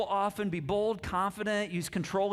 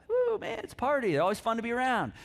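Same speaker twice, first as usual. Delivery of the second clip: excited party voice; 4 semitones higher, faster than usual. Retold or imitated. Acting out a yellow person.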